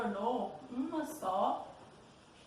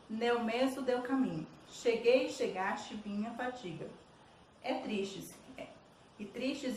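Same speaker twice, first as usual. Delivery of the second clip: poem reading. Acted. Teacher reading Bilac's verses to students, poem reading.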